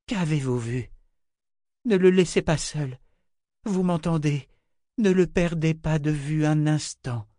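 the seer begging the sorceress not to leave him; urgent seer. Acted. (Pythie suppliante, voix plus aiguë et pressante)

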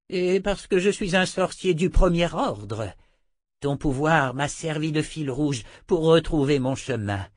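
high-pitched, self-important wizard; proud wizard. A narrator's reading. Revived wizard explaining to the woman how he survived, proud.

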